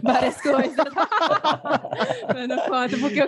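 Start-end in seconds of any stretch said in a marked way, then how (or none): 0.8-2.3 playful villainous cackle; evil laugh. Real, not acted. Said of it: "risada maligna".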